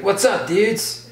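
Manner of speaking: high, drawn-out "dude" impression; imitated dude greeting. Seb greeting strangers from his car, imitated dude greeting. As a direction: stretch it out high like an over-keen bro.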